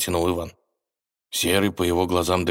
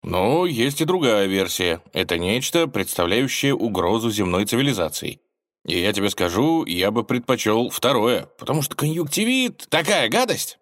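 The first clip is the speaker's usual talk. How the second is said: know-it-all; 4 semitones higher than usual. Acted. Ivan keeps playing the expert.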